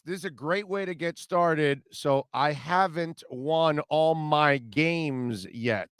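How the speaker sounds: imitating a slow Southern coach accent; Brian Kelly's Southern accent. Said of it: "Notice how he says".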